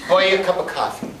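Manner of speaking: Irish buy. Shown as a demonstration. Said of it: "So you would say".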